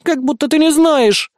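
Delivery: slow offended sigh; hurt sigh. A narrator's reading. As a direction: sulk the line out, offended. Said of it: "обиженно выдохнула наследница".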